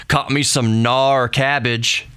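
slow, badly faked West Coast surfer accent; terrible West Coast accent. Shown as a demonstration. Host mimicking a surfer dude, terrible West Coast accent. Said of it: "That was a terrible West Coast accent".

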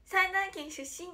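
lightly voiced idol intro, said slowly; imitating Konaa. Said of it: "ってなって".

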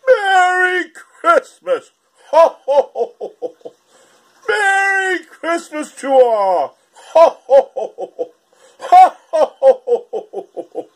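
hearty performed Santa call, loud on each first ho. Acted. Singing Santa greets everyone at the door, jolly and booming. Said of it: "make me singing Santa this Christmas".

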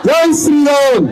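drawn-out rally chant, falling at the end; slogan shouting. Real, not acted. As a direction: shout the slogan slowly for the crowd to echo. Leading a crowd in a slogan. (సాగదీస్తూ నినాదం)

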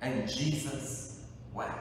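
"And Jesus wept." said softly, falling away; hushed quote. Shown as a demonstration. Preacher moved by the verse, repeating it softly. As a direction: let "And Jesus wept." fall quiet. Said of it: "nothing that moves me like those three words".

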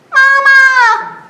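high wailing call of mama; piglet crying for mama. Acted. Lost piglet calling for mama, high wail. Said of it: "said Piglet".

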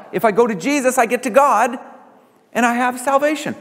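recalling his own salvation with lifted wonder; remembered wonder. Retold or imitated. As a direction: relive the moment it clicked. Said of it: "It just was".

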